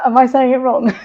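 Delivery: amused question through laughter; laughing self-doubt. Real, not acted. Coach fumbling French to the listener, laughing at herself. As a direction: ask it while starting to crack up.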